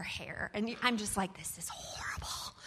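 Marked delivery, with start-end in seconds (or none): 1.4-2.5 hushed, breath-heavy muttered dismay; dismayed undertone. Retold or imitated. Player overwhelmed by a logic puzzle, hushed dismay. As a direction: say it under your breath, appalled.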